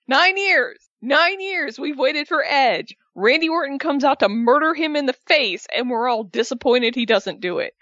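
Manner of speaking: high-pitched, exasperated mini-rant; mock indignation. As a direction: act mildly outraged at the fans. Mock outrage over booing fans.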